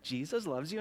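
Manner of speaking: soft, hushed voice; near whisper. Shown as a demonstration. Leader prompting kids to say it to each other, hushed. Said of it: "you don't even have to whisper it".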